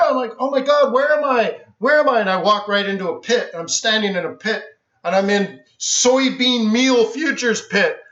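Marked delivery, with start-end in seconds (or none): 0.4-2.2 amazed. Retold or imitated. First sight of the floor.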